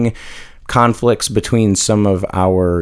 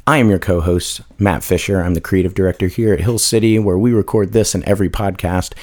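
hoarse voice. Real, not acted. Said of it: "I've got a frog in my throat".

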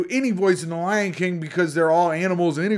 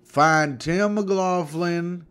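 slow, drawn-out verdict reading; mock jury foreman; slower than usual. Pig jury's foreman delivers the verdict, slowly and haltingly. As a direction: read the verdict with mock solemn pauses.

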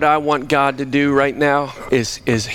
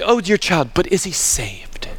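put-on British accent; 4 dB quieter than usual. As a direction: imitate a British lady, dropping almost to a whisper. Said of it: "in a British accent, she'd say".

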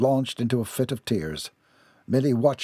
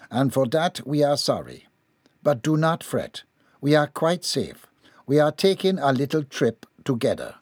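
slightly raised character voice reading a letter; reading aloud; 3 semitones higher than usual. A narrator's reading. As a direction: read the letter out, a little higher. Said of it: "she began to read aloud".

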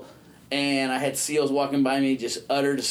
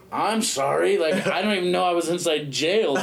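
higher-pitched mock-innocent apology; bewildered apology; 4 semitones higher than usual. Inmate apologising to offended officer, baffled. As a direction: apologise as if utterly clueless.

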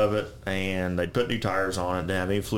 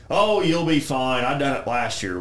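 breezy reassurance; 5 semitones higher, 3 dB louder than usual. Retold or imitated. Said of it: "He goes".

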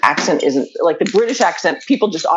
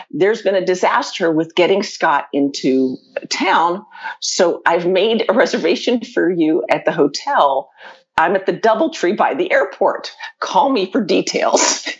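measured, slowed-down message readout; reading a text; slower than usual. Retold or imitated. Traveller relays the text about the hotel booking, slow and measured. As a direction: lay out each phrase slowly and deliberately.

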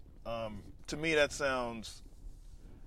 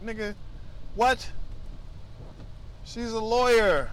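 incredulous retort; 5 semitones higher than usual. Retold or imitated. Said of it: "I'm like".

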